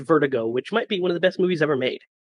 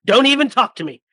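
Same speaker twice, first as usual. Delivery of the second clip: mock indignant outburst; 7 semitones higher, 7 dB louder than usual. Imitating actor dismissing offer.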